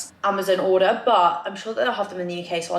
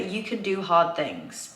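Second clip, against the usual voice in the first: slow, measured affirmation; dictating slowly to oneself; writing aloud; slower than usual. Real, not acted. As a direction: say it slowly as you write it. Says affirmation while writing it.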